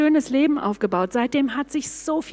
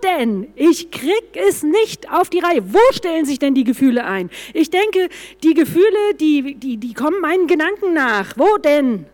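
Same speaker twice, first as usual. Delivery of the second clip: raised, exasperated plea, pitched up; mildly shouted, despairing complaint; crying out to God; 3 semitones higher than usual. Retold or imitated. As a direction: retell a frustrated outcry to God. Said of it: "Ich hab zu Gott geschrien".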